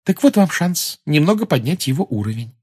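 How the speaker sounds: sweetly obliging suggestion; courteous. A narrator's reading. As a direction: offer the advice ever so kindly. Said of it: "любезно посоветовала Гермиона".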